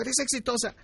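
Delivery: mock praise. Compliment that isn't believed.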